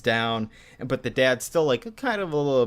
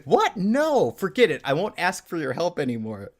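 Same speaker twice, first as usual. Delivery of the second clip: mock incensed; 4 semitones higher than usual. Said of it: "she's, like, incensed".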